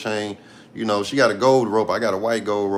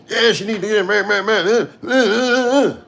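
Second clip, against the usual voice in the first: way higher, louder squawking caricature; mock bitter baby mama; 11 semitones higher, 4 dB louder than usual. Vlogger mocking Scarface Woods as bitter baby mama, high squawk. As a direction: ham up a mad baby mama stammering uh uh uh. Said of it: "she talk like she just a mad, a bitter ass, uh, baby mama".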